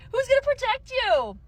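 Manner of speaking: outraged demanding rant; furious rant. Real, not acted. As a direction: hurl them at her.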